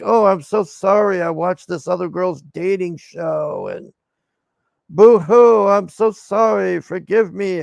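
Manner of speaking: mocking a weepy man's apology; mock crying apology. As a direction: ham up his teary sorry. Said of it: "crying to her".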